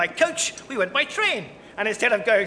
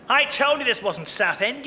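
usual speaking voice

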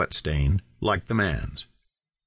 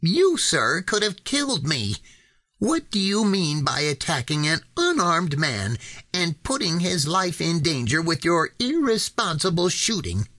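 higher, strained voice putting on more fight than he feels; bluffing indignation, pitched up; forced bold shout; 7 semitones higher than usual. A narrator's reading. Kennedy shouts back at the rancher, higher and strained. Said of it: "He shouted with more aggression than he felt".

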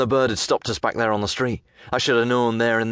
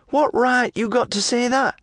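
high, slow indignant woman voice; angry lass. Acted. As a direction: spell out the outrage, pitched up. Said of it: "she says".

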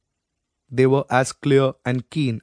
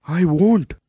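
higher, louder, bitter retort; spat out; 6 semitones higher, 4 dB louder than usual. Acted. A son answers his dying mother bitterly, spitting it out. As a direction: spit the words back at her. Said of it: "Dvaipayana spat out".

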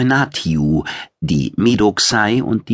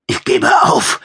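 high, loud, strained surrender; squeezed out; 5 dB louder than usual. A narrator's reading. Pinned fighter squeezes out his surrender, strained. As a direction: force it out while in a chokehold. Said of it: "quetschte er hervor".

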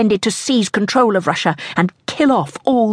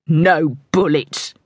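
measured falling reply from a gunman; grudging answer; slower than usual. A narrator's reading. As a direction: state it slowly as a grudging promise. Pursuer answers her plea.

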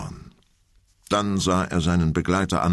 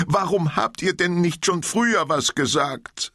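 hurt and close to tears; tearful undertone; 13 semitones higher than usual. Acted. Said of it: "In ihrer Stimme schwang ein weinerlicher Unterton mit".

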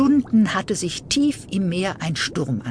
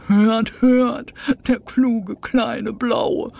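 laughing praise; 7 semitones higher, much slower than usual. Acted. Doctor praising the little fish, laughing and slow. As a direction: chuckle admiringly at the clever one. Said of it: "lachte der Langnasendoktor".

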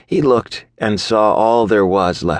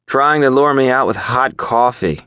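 higher, mock-musing with an angry edge; mused angrily; 6 semitones higher than usual. A narrator's reading. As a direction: muse bitterly to yourself. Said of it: "I mused angrily".

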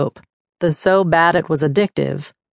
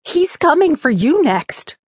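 ominous ghost; 10 semitones higher than usual. A narrator's reading. Ghost finally speaks, ominous.

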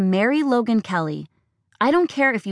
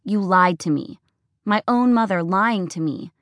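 higher, shrill-edged accusing rant; furious, hurt daughter; 4 semitones higher than usual. Acted. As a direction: pour out every grievance. Daughter's tearful tirade.

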